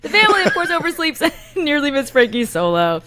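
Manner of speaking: mock British reading held all the way through; British accent retake. Shown as a demonstration. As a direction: redo the line in a steadier British accent. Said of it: "I went a little Australian at the end".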